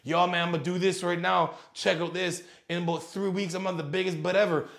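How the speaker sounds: a hint of a cocky gym bro; mock gym bro. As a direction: parody a gym bro bragging. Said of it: "being like".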